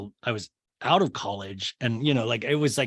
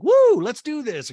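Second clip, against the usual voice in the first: high, loud, drawn-out whoop; Kyle; 13 semitones higher, 9 dB louder, slower than usual. Retold or imitated. Podcaster mimicking Kyle off the gondola, mock excited whoop. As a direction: let out a mock rallying cheer.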